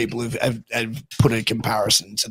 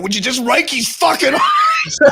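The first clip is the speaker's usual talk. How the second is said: high, loud heckler's shout; retold yell; 13 semitones higher, 6 dB louder than usual. Third-row spectator yelling at the wrestler, imitated shout. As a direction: imitate a yell from the back rows. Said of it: "person in the third row yells out".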